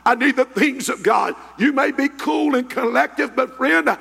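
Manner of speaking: impassioned personal testimony from the pulpit; fervent preaching. Real, not acted. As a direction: preach your need with urgent conviction.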